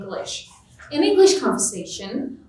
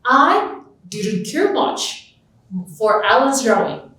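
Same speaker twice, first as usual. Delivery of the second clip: slow emphasis. Shown as a demonstration. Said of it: "the main statement about Alan's drawing is negative".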